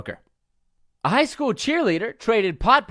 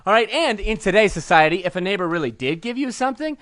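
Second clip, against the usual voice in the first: worked-up nerd tirade, often pitched up; comic rant; 3 semitones higher than usual. Pretend. Nerd ranting about a movie remake to hecklers, comic outrage. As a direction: hammer out each point in mock outrage. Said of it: "that's my rant".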